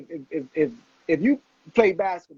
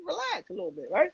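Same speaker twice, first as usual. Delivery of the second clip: amused; 11 semitones higher than usual. Retold or imitated. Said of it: "I said".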